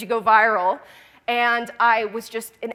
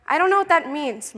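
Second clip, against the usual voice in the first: laughing reply; 6 semitones higher than usual. Retold or imitated.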